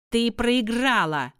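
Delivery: high, loud gloating cry; witch shout. Acted. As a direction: crow over your victory. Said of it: "крикнула ведьма".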